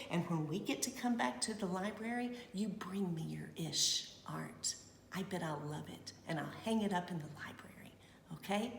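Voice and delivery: very soft, quick, half-whispered; soft promise. Real, not acted. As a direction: lean in and promise it gently. Quiet promise to children.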